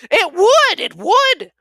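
loud, high, beaming agreement; eager agreement. Acted. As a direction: boom it out delighted. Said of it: "Pole agreed expansively".

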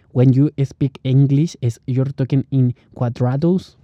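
slow English in a square Spanish accent. Shown as a demonstration. Showing how Spanish speakers sound in English, Spanish accent. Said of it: "es cuadrada".

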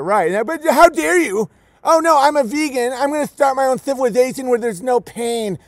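lampoon a self-righteous vegan; mock vegan.

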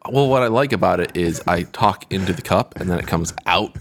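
mic stuffed in a cup. Real, not acted. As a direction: speak into a cup, hollow echo. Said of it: "How does that sound?".

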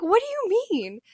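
high-pitched incredulous question; retold disbelief. Daughter retelling her reply to mom about supplies, incredulous. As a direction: squawk it like this is absurd.

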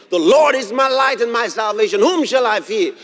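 ringing bold declaration; bold proclamation. Shown as a demonstration. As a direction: proclaim it boldly to the congregation. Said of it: "then I'll boldly proclaim".

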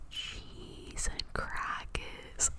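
slow, drawn-out creepy whisper. Shown as a demonstration. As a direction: stretch it out, unsettling not soothing. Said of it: "that sounded more creepy than relaxing".

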